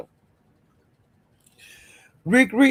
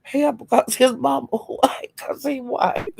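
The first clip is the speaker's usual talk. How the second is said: laughing quote; 8 semitones higher, 5 dB quieter than usual. Retold or imitated. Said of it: "I was saying".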